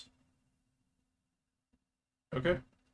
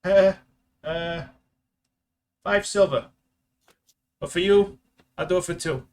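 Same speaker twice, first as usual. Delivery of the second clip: put-on high, loud eager street kid; haggling newsboy pitched up high; paper boy voice; 6 semitones higher, 8 dB louder than usual.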